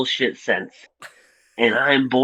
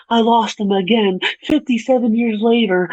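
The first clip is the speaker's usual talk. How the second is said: mocking heroine; 10 semitones higher than usual. Mocking the heroine's tearful line.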